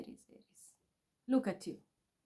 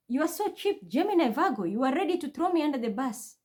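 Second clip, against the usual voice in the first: angry rant; 4 semitones higher than usual. Real, not acted. Berating zodiac signs in a rant.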